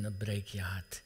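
a whispered heartbreak. Acted. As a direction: breathe "dan breek je hart" as an unvoiced whisper. Whispered repeat of a climax.

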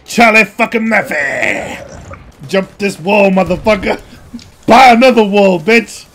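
quoted yell. Retold or imitated. Gamer quotes a comedy sketch, yelling. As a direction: yell the famous sketch line. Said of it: "quoting Chappelle sketch".

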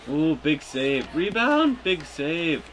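high, loud save call; excited shout. Real, not acted. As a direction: shout the rebound in the heat of play. Another big save called.

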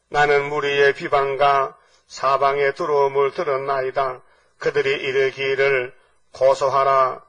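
slow, solemn, measured recitation; scripture reading. Acted. Preacher reading the prophet's lament to the congregation, slow scripture reading. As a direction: intone the verse phrase by phrase.

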